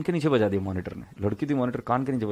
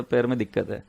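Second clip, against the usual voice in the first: laughing. Real, not acted. Laughs at his excuse.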